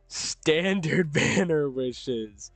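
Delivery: very slow, drawn-out "standard banner wishes"; mock emphasis. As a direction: stretch each word of "standard banner wishes" sardonically. Mocks own choice, drawn-out repeat.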